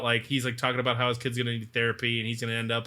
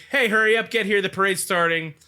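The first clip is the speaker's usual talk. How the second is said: put-on impatient kid; 6 semitones higher, 3 dB louder than usual. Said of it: "his son's like".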